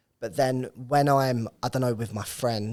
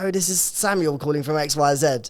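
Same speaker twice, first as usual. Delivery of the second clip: mock Queen's English posh; 4 semitones higher, 4 dB louder than usual. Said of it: "tried to teach us Queen's English posh".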